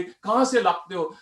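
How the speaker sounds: रौब से, धीरे-धीरे पूछा गया सवाल; रुबाबदार आवाज. Retold or imitated. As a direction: imitate a commanding customer, slow and deliberate. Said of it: "बड़ी रुबाबदार आवाज आ गई". (रौबदार ग्राहक की हल्की नकल)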